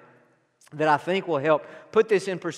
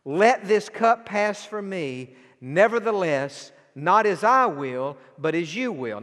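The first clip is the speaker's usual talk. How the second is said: pleading prayer. Acted. Preacher voicing Jesus' prayer again.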